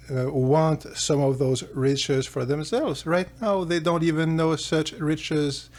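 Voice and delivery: a fretful vizier talking the king down; worried ministers. Acted. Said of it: "his ministers, whatever, say".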